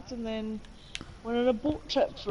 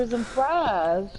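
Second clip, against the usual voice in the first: cheesy mock American accent, a bit louder; 3 dB louder than usual. Co-host joking about a road trip, mock American accent. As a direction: play a hammed-up American tourist, American accent. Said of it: "I can't do the American accent".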